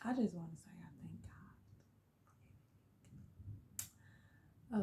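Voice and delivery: whispering through tears; near-silent, choked thanks; tearful whisper. Real, not acted.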